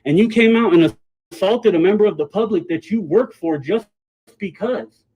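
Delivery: loud, accusing shouting; angry. Real, not acted. Accusing employee loudly.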